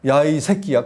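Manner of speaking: retold angry yell. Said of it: "말 그대로 할게".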